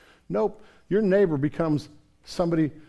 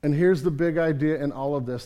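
usual speaking voice

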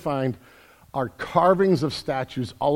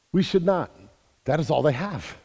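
ordinary delivery

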